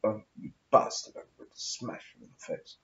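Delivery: a hint of a growled threat, trailing off softly; Oliver Reed. Threatening a passer-by, lightly imitating Oliver Reed. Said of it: "I sound like Oliver Reed now".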